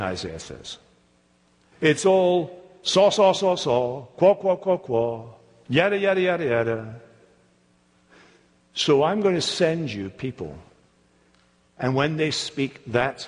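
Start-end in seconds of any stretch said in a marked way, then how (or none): 1.8-7.0 measured recital of the mocked syllables; echoing their mockery. Isaiah quoting the scoffers' words back, measured echo. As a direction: hand their babble back deliberately, each group falling away. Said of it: "You don't like what I'm saying".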